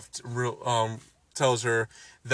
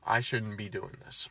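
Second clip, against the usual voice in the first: whispered realization; Wanda's realization, mock whisper; 3 semitones lower, 9 dB quieter than usual. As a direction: breathe it as a guilty aside. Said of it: "So she realizes".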